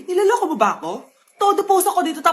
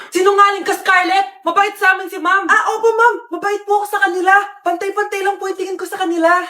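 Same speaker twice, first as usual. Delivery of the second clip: angry; 3 semitones higher, 4 dB louder than usual. Acted. Classroom quarrel.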